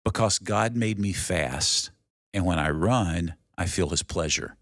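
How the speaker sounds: slow, measured recital of a film line; quoted film line. Retold or imitated. Man explaining his calling to his sister, slow and deliberate. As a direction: deliver the famous line slowly, phrase by phrase. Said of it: "And he goes".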